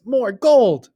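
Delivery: wife thrilled at the gold, crowing; gleeful. A narrator's reading. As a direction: savour every coin of it. Wife rejoicing.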